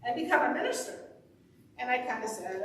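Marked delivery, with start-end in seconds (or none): 0.0-1.0 lightly attempted Irish accent. Practitioner advising a student, light Irish accent. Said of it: "with her sp-, uh, Irish accent".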